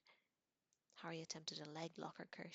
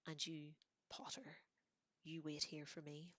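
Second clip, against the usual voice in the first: cold fury. Acted. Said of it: "in a voice of cold fury".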